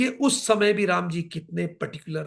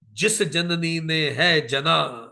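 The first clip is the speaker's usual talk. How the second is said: very slow, reverent declamation; solemn devotional recital; slow verse recitation; much slower than usual. Acted. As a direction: linger over praise of the mother. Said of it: "वो कहते हैं राम जी".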